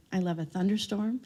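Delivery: whispered with delight. Retold or imitated. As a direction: breathe it like a secret joy. Dreamy retold quote.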